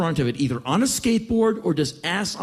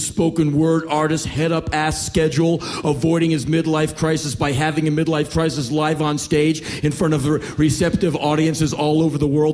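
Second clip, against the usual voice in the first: raised, relentless harangue; mocking tirade; 4 dB louder than usual. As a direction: pile up the taunts without a break. Young panhandler's tirade mocking the comedian.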